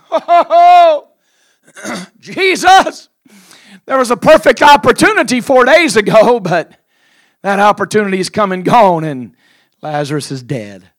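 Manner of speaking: high, loud crying sister scolding; wailing sister. Acted. Grieving sister wails at Jesus, high loud lament. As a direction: wail at Jesus for coming late.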